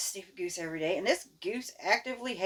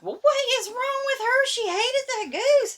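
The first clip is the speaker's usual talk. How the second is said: higher, slower bewildered mother with a laugh; mock incredulous mother, pitched up; puzzled mom; 8 dB louder than usual. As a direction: play mom baffled at the crying kid. Mom puzzled at crying child.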